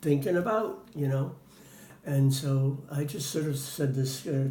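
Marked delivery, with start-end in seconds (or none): 0.0-1.3 higher, matter-of-fact mom voice; a hint of a breezy mother; quoting the mother. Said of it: "and she said".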